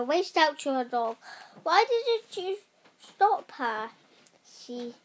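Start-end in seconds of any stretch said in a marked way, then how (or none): 1.6-3.9 high-pitched, indignant mock shout. A narrator's reading. Witch scolding her dog for not stopping Tessa, shouted. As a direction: start high, drop on the last words.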